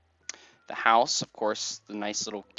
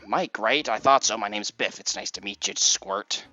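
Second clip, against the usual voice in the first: big friendly guy. Acted. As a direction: play a hearty pal greeting a little buddy. Voices Biff from the game.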